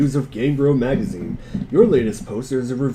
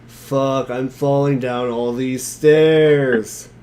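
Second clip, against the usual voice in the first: slow, dragged-out stoner reading a comic line; a hint of a lazy stoner, taking his time; lightly done stoner voice; much slower than usual. Reading a webcomic panel on stream, slow mock stoner. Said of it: "And only in Stoner voice".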